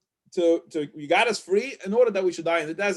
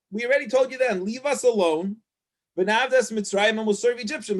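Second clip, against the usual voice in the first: higher, indignant reproach; complaining Israelites; 3 semitones higher than usual. Retold or imitated. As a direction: nag him like a fed-up crowd. People complaining to Moses.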